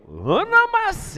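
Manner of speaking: drawn-out high cheer; hype shout. Retold or imitated. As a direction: holler it across the water. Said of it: "what my friends say when we're wakeboarding".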